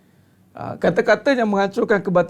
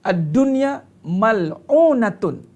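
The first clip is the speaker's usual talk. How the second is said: recited hadith; 2 semitones higher, much slower than usual. Shown as a demonstration. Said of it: "Apa Nabi kata".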